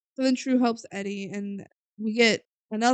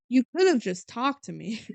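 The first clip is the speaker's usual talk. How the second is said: laughing mockery. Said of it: "Tru later in the movie".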